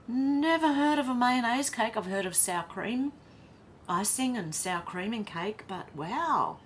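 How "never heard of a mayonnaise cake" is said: higher and louder in disbelief; can't believe what she's reading; astonished. Real, not acted. Host reacting to a viewer's mayonnaise cake, astonished.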